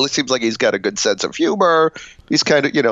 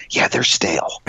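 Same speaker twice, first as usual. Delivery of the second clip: whispered complaint; 3 semitones lower than usual. Retold or imitated. Acted complaint to the pope.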